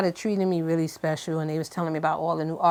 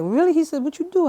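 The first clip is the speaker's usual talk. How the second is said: lightly voiced D, pitched up; a hint of D, higher; imitating D; 9 semitones higher than usual. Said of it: "Why you sound like him".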